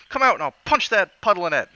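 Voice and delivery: high, loud Cockney challenge; Cockney threat. Acted. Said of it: "and I says".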